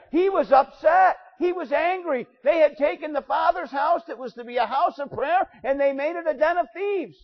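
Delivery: impassioned pulpit shout; fiery preaching. Real, not acted. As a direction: preach it hard, rising with heat. Preacher building to fiery point.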